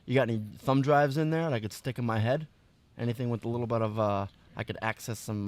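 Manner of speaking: lightly voiced tough street kid; brushing off a stranger, a hint of swagger. Plays a street kid NPC.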